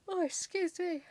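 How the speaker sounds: spoken through a big yawn, pitch high; words stretched out by a yawn. Real, not acted. Tired crafter yawning mid-video to her viewers. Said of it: "I am yawning".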